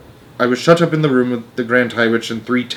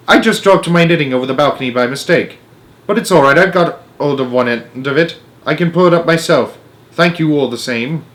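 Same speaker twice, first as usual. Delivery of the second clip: cool and calm; 4 semitones higher, 3 dB louder than usual. Acted. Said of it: "the coolness of her voice".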